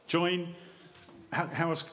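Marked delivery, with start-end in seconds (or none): 0.1-0.5 "Join" leaned on, drawn out alone; stress on join. Shown as a demonstration. Preacher stressing the key word to the congregation, leaning on "Join". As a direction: hit "Join" hard and hold it. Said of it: "how else can I emphasize that word".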